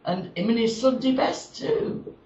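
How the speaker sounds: measured, drawn-out monologue delivery; storytelling verse with lines falling away at the end; comic verse recitation. Acted. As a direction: recite it as a deadpan rhyming tale.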